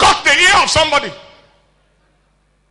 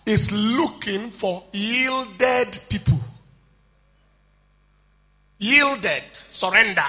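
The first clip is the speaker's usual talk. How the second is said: hushed, slow; 4 semitones lower, 9 dB quieter, slower than usual. Acted. Soft contrast after shout.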